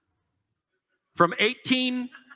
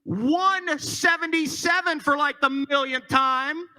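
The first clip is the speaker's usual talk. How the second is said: auctioneer; 5 semitones higher than usual. Acted. Calling out bid numbers.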